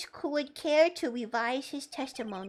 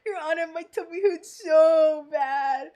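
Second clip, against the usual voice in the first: loud, hammed-up wail of a sick witness; shouted whiny witness; 3 semitones higher, 8 dB louder than usual. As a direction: yell the complaint at the judge, exaggerated. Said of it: "I'm like, "My tummy hurts really bad".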